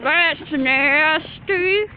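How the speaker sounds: slow grossed-out drawl; disgusted. Real, not acted. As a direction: stretch it out in disgust. Disgusted drawn out.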